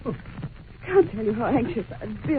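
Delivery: slow, anxious plea; anxious, frightened. Acted. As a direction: drag the words out in worry. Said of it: "Poor girl is obviously frightened".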